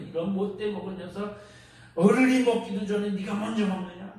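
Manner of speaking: mock rebuke of a rude son; understated fatherly telling-off; angry scolding. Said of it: "또 화를 내요".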